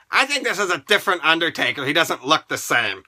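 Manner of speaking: low, fast dopey voice; a deep, dumb mock of the fans; mocking doubters. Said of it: "People were like".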